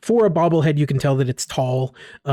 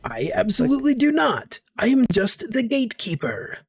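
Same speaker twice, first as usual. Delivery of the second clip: higher, airy voice of a trapped spirit; talking bobblehead voice; 6 semitones higher than usual. Acted. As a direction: speak as a small bewildered idol.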